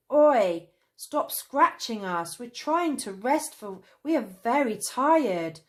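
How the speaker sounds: high, loud sleepy protest; groggy shout to stop; half-asleep mumble. A narrator's reading. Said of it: "mumbled Traveller Cane, half asleep".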